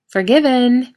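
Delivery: loud high cheerful shout. A narrator's reading. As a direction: shout it gleefully. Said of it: "Misha shouts".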